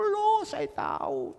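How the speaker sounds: high, drawn-out surprised "loh"; retold exclamation, high and loud; surprised retort. Acted surprised reply in retold chat.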